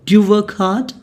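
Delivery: teacher's model of a contracted "Do you"; linked pronunciation. Shown as a demonstration. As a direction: blend "Do you" into one syllable before "work hard". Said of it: "Do you is pronounced as do".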